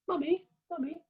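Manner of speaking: put-on high squeaky baby voice; a little cub calling its mother, high and sweet; tiny child's voice; baby polar bear.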